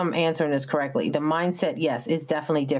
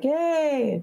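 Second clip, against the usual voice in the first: relaxed vacationer; 8 semitones higher than usual. Retold or imitated. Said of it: "by the end of the trip".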